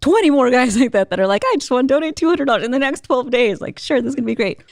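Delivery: high-pitched, excited imagining; giddy optimism. Retold or imitated. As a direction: lift the pitch, amused at your own hopeful fantasy. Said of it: "I felt so good".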